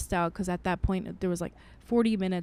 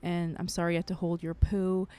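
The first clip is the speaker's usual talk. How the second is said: tender apology. Retold or imitated. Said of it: "I was like".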